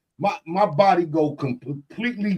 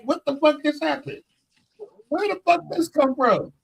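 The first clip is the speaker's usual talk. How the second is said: stunned disbelief; 9 semitones higher than usual. Retold or imitated. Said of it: "I'm sitting there like".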